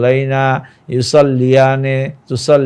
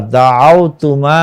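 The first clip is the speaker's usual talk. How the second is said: দাআওতুমা said slowly, each syllable drawn out; slow careful take; slower than usual. Shown as a demonstration. Teacher modelling দাআওতুমা slowly for students. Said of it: "মনোযোগ সহকারে ভালোভাবে পড়ব".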